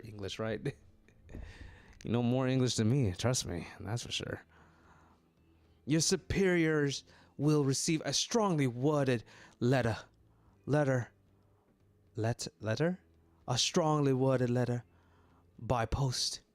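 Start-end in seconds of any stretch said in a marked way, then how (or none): 5.9-16.4 put-on a haughty, lightly done British accent; a Victorian snob huffing at the cashier. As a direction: threaten a letter in clipped British disdain. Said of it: "how to do a British accent".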